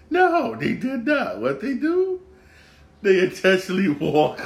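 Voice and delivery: outraged disbelief. Real, not acted. Outraged at the intentional walk.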